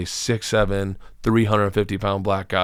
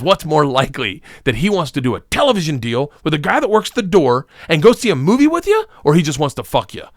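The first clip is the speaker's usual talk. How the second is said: higher, emphatic mock lecture; imitated incredulous dad; 4 semitones higher, 3 dB louder than usual. Dad warns son about Hollywood, imitated incredulous argument. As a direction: press the point like an exasperated dad, pitch climbing.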